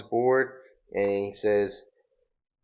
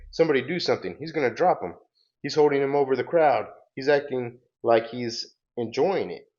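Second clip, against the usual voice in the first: higher-pitched, urgent mock yells; crowd yelling; 5 semitones higher than usual. Onlookers plead for someone to save him, mock yelling. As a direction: act out alarmed onlookers, pitched up. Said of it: "people are yelling at this".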